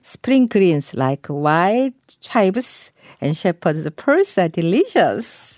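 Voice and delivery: very slow, clear sentence for learners; slow model reading. Shown as a demonstration. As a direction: read it slowly word by word. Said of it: "마지막으로 한 번 더 들어보세요". (천천히 또박또박 읽기)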